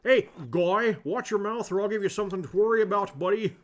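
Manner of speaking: loud hammed-up threat at the sneering monk; angry threat. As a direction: snap at him like a bar-room brawler.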